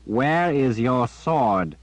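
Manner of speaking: put-on slow, pointed old man demand; edgy Zed. A narrator's reading. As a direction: ask with a hard edge. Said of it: "his voice taking on an edge".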